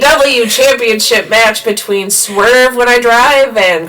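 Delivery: slow, laughing through the name; laughing announcement. Real, not acted. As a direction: giggle while announcing.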